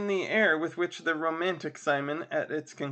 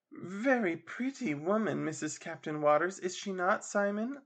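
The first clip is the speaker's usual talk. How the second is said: teasing; 4 semitones higher than usual. Acted. Charlotta teases Simon.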